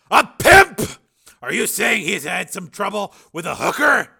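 loud, high incredulous questions; shocked disbelief. A narrator's reading. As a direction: burst out, unable to believe it. Father reacts to shocking news.

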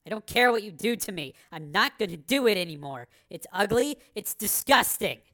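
defiant. Acted. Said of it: "she said defiantly".

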